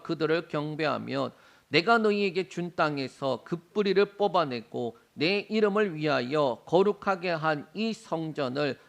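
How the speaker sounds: measured, steady Bible reading; formal congregational scripture recitation. Acted. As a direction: read the passage aloud evenly, phrase by phrase. Reads scripture aloud.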